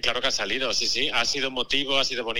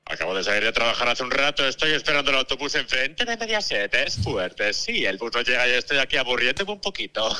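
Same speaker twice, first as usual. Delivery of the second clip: TV presenter voice. Pretend. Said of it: "tu voz así de programa de televisión".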